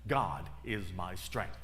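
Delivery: slow whispered-in-spirit mantra, one step per phrase; slow affirmation. Retold or imitated. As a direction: repeat it like a step-by-step prayer. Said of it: "And her affirmation was".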